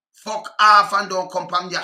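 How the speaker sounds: slow, loud telling off; angry. Real, not acted. Angry man orders the interviewer to leave. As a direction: drive him away with every word.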